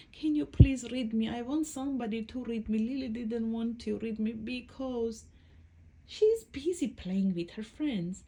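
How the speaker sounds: lightly voiced little book pleading to be read; pleading storybook book. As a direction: plead like a child asking for a story.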